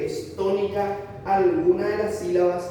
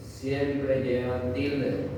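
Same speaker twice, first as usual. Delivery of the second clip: "Siempre llevan tilde" drawn out very slowly; slow emphatic rule; 2 semitones lower, much slower than usual. Shown as a demonstration. Teacher repeating the rule to the class slowly. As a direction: say it slowly so it sinks in. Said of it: "No hay ninguna excepción acá".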